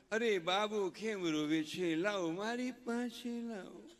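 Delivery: slow, drawn-out cooing father, ending in a squeak; mock fussy father. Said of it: "એનો husband". (બાળકને લાડ કરતા પિતાની નકલ, ધીમું અને લંબાવીને)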